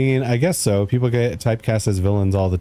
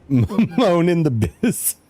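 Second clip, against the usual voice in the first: slow boastful brag; 8 semitones higher, much slower than usual. Pretend. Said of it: "I got the best".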